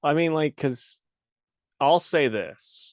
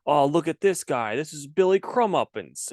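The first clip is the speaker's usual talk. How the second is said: hyped, higher mock announcer introducing a character; X-Men announcer voice; 4 semitones higher than usual. Co-host spoofing a random Wolverine read, X-Men announcer voice. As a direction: introduce an obscure mutant like a cartoon announcer. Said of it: "your X-Men announcer voice".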